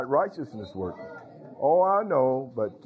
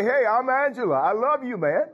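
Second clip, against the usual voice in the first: higher-pitched, emphatic show of affection; heartfelt declaration; 6 semitones higher than usual. Shown as a demonstration. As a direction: say it like you mean it. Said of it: "Say it like you mean it".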